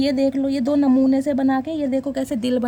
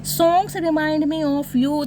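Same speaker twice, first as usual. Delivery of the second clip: slow reading; much slower than usual. Shown as a demonstration. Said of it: "reads card message slowly".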